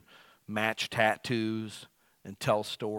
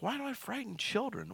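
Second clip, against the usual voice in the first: indignant question; 10 semitones higher, 7 dB quieter than usual. Retold or imitated. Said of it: "I'm like".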